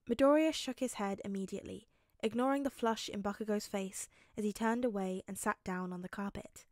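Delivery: measured audiobook narration; story narration. A narrator's reading. Narrator telling how Bakugo backs off, measured. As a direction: read the action evenly to the listener.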